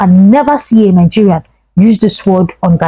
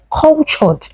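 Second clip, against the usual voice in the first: cultured pitched higher with a firm falling close; stress on cultured; 5 semitones higher than usual. Shown as a demonstration. Vlogger to viewers, hammering the point: stress on cultured. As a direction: land hard on the word cultured. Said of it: "Emphasis on the word cultured".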